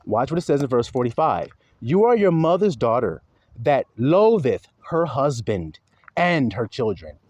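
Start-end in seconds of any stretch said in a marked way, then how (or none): 1.8-7.2 slow, emphatic Bible reading; scripture reading. Acted. Preacher reading verse forty-five to the flock, slow declaiming. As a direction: read the verse out deliberately, dropping low at the end.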